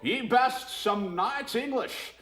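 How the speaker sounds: high, slow hammed-up pirate. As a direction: drag it out like a bad pirate. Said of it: "that's more of like a Bane from Batman".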